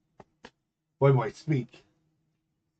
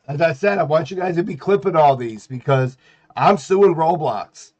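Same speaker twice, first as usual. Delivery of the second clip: loud indignant rant; 3 semitones higher, 5 dB louder than usual. Real, not acted. Declares he will sue Roblox.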